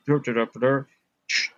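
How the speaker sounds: garbled radio talk ending in static; imitated radio chatter. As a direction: mimic indistinct words over a walkie-talkie. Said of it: "and he went".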